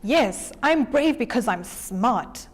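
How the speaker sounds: slow, quiet boast; boastful. Acted. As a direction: savour every word of the brag. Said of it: "boasted the jackal".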